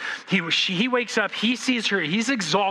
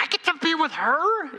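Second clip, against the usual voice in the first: much higher, giddy disbelief; awestruck groom; 10 semitones higher than usual. Retold or imitated. Every groom at the altar, giddy and much higher. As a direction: marvel at your luck. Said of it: "I don't know a groom who didn't think".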